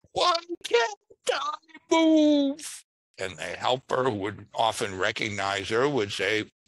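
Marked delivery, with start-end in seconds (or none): 0.1-2.8 very high, drawn-out whiny complaint. Speaker recalls the very first call they got, imitating a whiny woman caller. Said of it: "a woman who was just sort of whiny voice".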